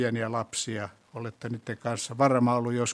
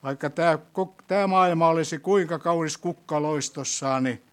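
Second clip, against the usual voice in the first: prayer. Acted. Leads closing prayer.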